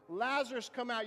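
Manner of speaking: a restrained version of a commanding cry; loud cry. Acted. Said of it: "he cries out in a loud voice".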